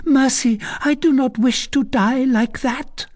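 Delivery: high, frantic pleading; mad with fright. A narrator's reading. Condemned girl begs the recluse for mercy, mad with fright. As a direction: beg for your life in a high, urgent voice. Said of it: "mad with fright".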